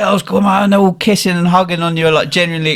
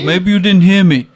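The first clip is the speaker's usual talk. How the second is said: slightly raised, put-on threatening voice; mock menacing order; 4 semitones higher, 3 dB louder than usual. Michelle clearing seats for his friends, mock menacing. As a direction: imitate a boss throwing someone out.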